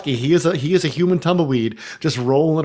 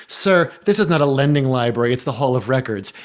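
snotty clerk. Retold or imitated. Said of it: "said in the same tone".

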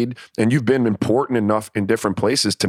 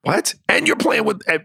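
incredulous what; 11 semitones higher than usual. Real, not acted. Incredulous at Luka trade talk.

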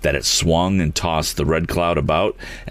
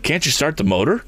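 frantic; 9 semitones higher than usual. A narrator's reading. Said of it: "asked Tom frantically".

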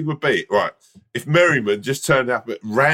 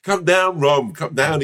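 raised call up the stairs; calling upstairs; 4 semitones higher, slower than usual. Retold or imitated. Wife calling her husband down the stairs, raised call. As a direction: call him down from below.

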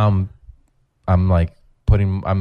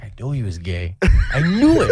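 imitated suspicious wife; 4 semitones higher than usual. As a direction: build to a high, comic "told you so". Acts out wife's suspicion being confirmed.

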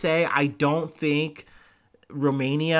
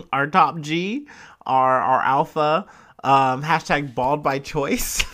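slow, laughing mockery, louder; mocking laugh; 5 dB louder, slower than usual. Real, not acted. Vlogger mocking the bald influencer, slow and laughing. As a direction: drag out the praise with a sneering laugh. Mocking Andrew Tate's baldness.

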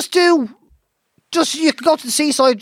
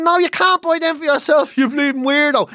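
a hint of a scornful shop clerk; 4 semitones higher than usual. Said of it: "He said".

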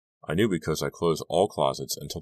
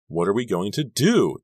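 trembling voice; 5 semitones higher, 5 dB louder than usual. A narrator's reading. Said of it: "her voice trembling now".

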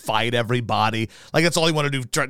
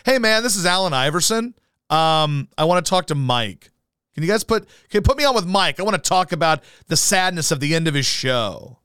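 higher, lightly voiced basketball star; a hint of a star calling in; Allen Iverson prank call; 5 semitones higher than usual. Prank caller pretends to be the star, lightly voiced. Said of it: "Pretend you're Allen Iverson and call in".

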